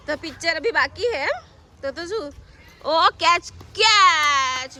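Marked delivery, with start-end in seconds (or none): 2.9-4.8 louder, drawn-out shout of catch; mother cheering a catch in the dark; excited cheer. Real, not acted.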